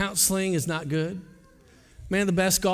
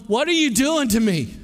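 angry cry to God; 4 semitones higher, 4 dB louder than usual. Retold or imitated. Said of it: "I can remember going".

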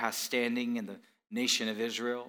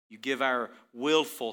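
normal talking voice

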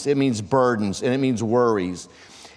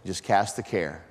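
calm advice; 8 semitones lower, 6 dB quieter than usual. Retold or imitated. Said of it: "phone calls with him have started just like that".

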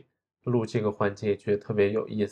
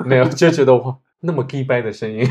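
边笑边说; 4 semitones higher, 10 dB louder than usual. Real, not acted. 边笑边评价自己配音.

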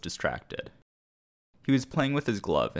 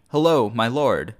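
higher, louder, slow call; crying out; 4 semitones higher, 7 dB louder than usual. A narrator's reading. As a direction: try to rouse your master.

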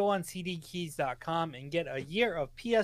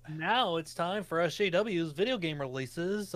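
slow, drawn-out game show announcer; giddy announcer voice. Acted. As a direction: announce it like a hyped show host. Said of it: "giddy announcer voice".

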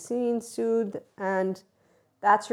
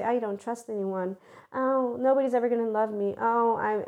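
higher, whiny mock lament; mock self-pity; 4 semitones higher than usual. Mimicking the heartbroken wallowing in self-pity, whiny. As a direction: whimper it like a pity party. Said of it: "they started to say".

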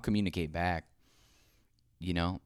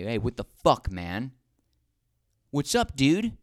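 frat bro; 6 semitones higher, 5 dB louder than usual. Pretend. Acted confrontation of friend.

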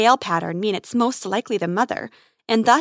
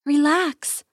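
lilting, soothing call, higher up; gentle sing-song to a hurt creature; sing-songy; 4 semitones higher than usual. Acted. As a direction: coax an injured animal in a light sing-song. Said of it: "she says in a sing-songy voice".

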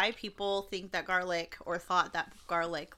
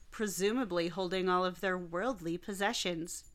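dramatic narration. Acted. Dramatic story intro.

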